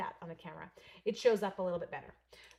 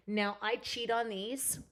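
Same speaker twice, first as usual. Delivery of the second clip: whisper; 2 semitones higher, slower than usual. Real, not acted. Confiding craft secret.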